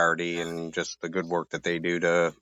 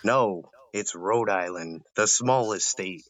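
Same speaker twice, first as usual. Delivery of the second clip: slow, spelled-out correction; lightly acted, drawn-out explaining; mock patient correction; 3 semitones higher, slower than usual. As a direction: set the stranger straight, taking it slowly. Acts out his correction to outsiders.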